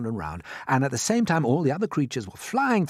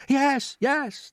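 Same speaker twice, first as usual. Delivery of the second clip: high eager chorus; 13 semitones higher, 3 dB louder than usual. Acted. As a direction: agree all together, keen. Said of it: "they chorused".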